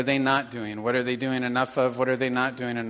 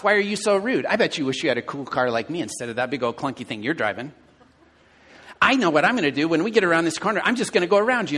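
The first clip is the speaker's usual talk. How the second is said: mock gloating rant; 3 semitones higher, faster than usual. Inner rant at driver.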